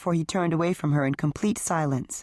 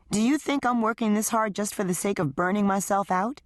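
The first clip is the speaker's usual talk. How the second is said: a hint of a higher, hurt wife defending herself; lightly voiced wife; 4 semitones higher than usual. Wife answering husband's accusation, higher hurt voice. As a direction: plead your case, a little raised.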